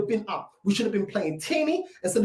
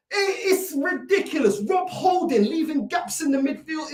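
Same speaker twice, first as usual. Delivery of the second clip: higher, slower, near tears; a fan's half-sob of despair; crying out; 4 semitones higher than usual. Real, not acted. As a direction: whimper it like you're about to cry. Fan despairing after a knockout.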